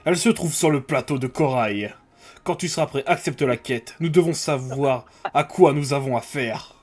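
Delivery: low, slow commanding officer voice; deep commander voice. Acted. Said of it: "Fais une voix grave, c'est le commandant".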